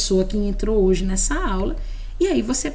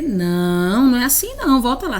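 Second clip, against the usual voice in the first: correção ríspida; 3 semitones higher, 5 dB louder than usual. Shown as a demonstration. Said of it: "você não pode dizer".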